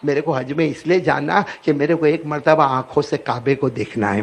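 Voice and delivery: put-on a child pleading through tears; tearful child. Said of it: "روتے روتے کہا". (روتے ہوئے بچے کی التجا)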